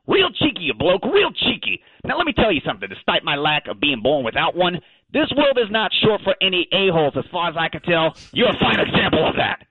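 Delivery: high-pitched sarcastic Aussie retort; mock laugh, then scold them for being cheeky; worked-up, offended dog; indignant outburst. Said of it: "my second outburst of this interview".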